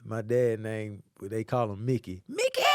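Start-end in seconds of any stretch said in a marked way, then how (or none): 2.3-2.6 calling out. Retold or imitated. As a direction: call the dad across the house. Mom calling dad's name.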